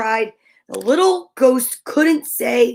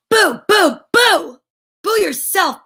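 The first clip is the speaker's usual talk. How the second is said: mumbled; 7 semitones higher, 4 dB louder than usual. Acted. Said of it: "Ben mumbled".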